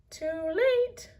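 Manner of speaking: high, shrill-free parrot croak; parrot squawk. Acted. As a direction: squawk it like a bird. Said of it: "squawked Polly".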